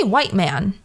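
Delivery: "white man" said slowly and leaned on; slow, weighted "white man"; stress on white man. Real, not acted. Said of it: "I put emphasis on that a little bit".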